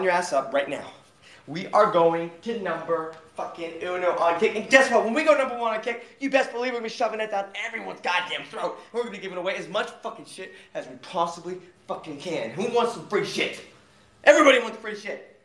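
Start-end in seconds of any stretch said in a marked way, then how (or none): 4.6-15.4 hype. Real, not acted. Hyping chat about free giveaways.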